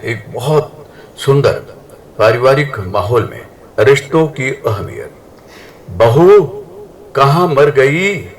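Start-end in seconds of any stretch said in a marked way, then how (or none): 5.9-8.3 mother-in-law yelling through the house, higher and louder; calling out. Acted. Mother-in-law summons her daughter-in-law from the other room, yelling. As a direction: call her daughter-in-law impatiently, slowly.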